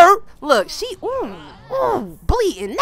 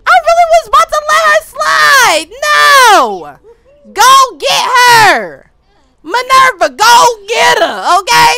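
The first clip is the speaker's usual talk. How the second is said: high, loud command; fired-up shout; 6 semitones higher, 6 dB louder, slower than usual. Real, not acted. Gamer shouting at Minerva to attack, loud. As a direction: yell her into action.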